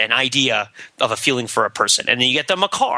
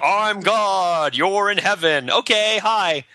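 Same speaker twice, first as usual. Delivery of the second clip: lightly voiced God; 7 semitones higher, much slower than usual. Mocking improv scene as God.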